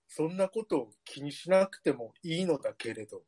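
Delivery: lightly voiced curry-eating teenage boy; chubby teen boy voice. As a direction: read it as a sulky teen boy. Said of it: "十代男性のカレー食べてる太った子の意見聞いて".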